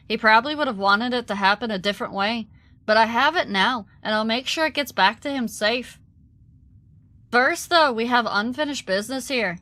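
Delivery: a hint of an Irish lilt for the dwarf; light Irish accent. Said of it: "a little bit of an Irish accent".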